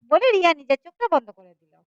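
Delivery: lively, dramatic storytelling voice; story narration. A narrator's reading. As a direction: tell the tale with rising and falling suspense. (নাটকীয় ভঙ্গিতে গল্প বলা)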